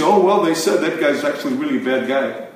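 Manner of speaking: quick, dismissive imitation of the news; mock news gossip. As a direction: toss it off like idle gossip on the news. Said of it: "if we just listen on the news, say".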